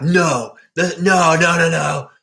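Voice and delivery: rising panicked no, no, no; denial shout. Retold or imitated. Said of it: "you're like".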